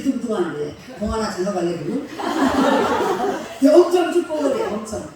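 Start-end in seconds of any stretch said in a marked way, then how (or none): 2.1-3.5 a loud real laugh bursting out; burst of laughter. Real, not acted. 3.6-5.1 엄청 축복을 해 said through loud laughter; laughing. Real, not acted. Laughing while repeating the blessing.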